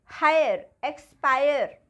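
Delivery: हायर, एक्सपायर with a clear "aay-er" glide; loud teaching हायर, एक्सपायर with "aay" brought out. Shown as a demonstration. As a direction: project हायर, एक्सपायर, stressing the "aay" sound. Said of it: "इसमें कैसे pronounce किया आई को".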